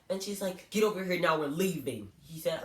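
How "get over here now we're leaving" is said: louder, firm order to leave; mother hurrying her son out; mildly hammed-up angry mom; insistent mother. Mother voiced insisting on leaving.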